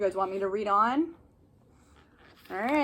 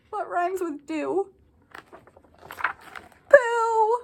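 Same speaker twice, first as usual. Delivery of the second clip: playful reveal; 7 semitones higher, slower than usual. Acted. Reading to kids, shouting the rhyme word with glee. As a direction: tease the rhyme, then blurt it out. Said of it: "asks kids for the rhyme".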